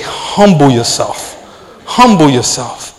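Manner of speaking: low, slow inner voice, lightly imitated; voice of the Spirit. The Spirit checking his rising flesh, a restrained retold voice. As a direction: quietly voice the Spirit's instruction. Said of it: "I feel the Spirit just say".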